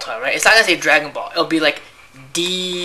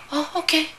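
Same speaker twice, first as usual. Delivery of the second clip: mock girly okay; 13 semitones higher than usual. Girl answering, quoted high.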